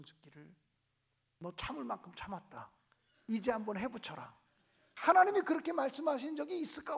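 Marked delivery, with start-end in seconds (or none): 1.4-4.3 low, soft inner voice of God; a hushed lower divine whisper, teasing the idea; mock voice of God granting revenge; imagined God's voice. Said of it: "하나님께서 내 마음에 음성".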